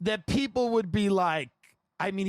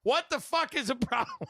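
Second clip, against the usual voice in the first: retold angry yell; 4 semitones higher than usual. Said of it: "He goes".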